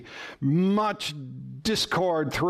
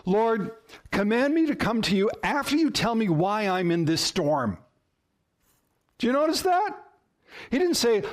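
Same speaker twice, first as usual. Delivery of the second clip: higher-pitched bargaining with God; imagined demanding plea; 4 semitones higher than usual. Acted. Preacher acting out what Peter didn't say, high pleading. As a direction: plead with conditions piled on.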